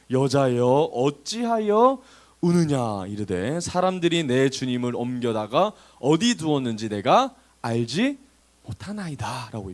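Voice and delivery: slow, measured verse reading; scripture reading. A narrator's reading. Preacher reading the resurrection account to listeners, slow scripture reading. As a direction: read it out deliberately, drawing out phrase ends. Reads the Bible verse aloud.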